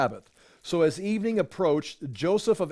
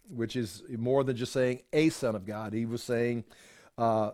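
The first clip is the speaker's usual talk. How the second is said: ordinary talk, nothing marked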